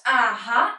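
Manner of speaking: UH-HUH long, going down then up; full third tone. Shown as a demonstration. Teacher shows the not-always-used full tone, long dipping UH-HUH. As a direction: draw UH-HUH down and back up. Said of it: "a little bit long".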